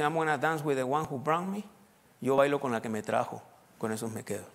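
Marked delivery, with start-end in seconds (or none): 0.0-1.6 quoting in English. Retold or imitated. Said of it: "Hay un dicho en inglés que dice".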